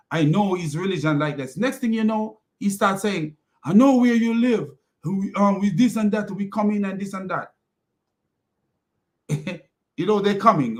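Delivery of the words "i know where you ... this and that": mock threat. A Muslim caller threatening him on the phone, mock menace. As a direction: play the caller's menace, hammed up.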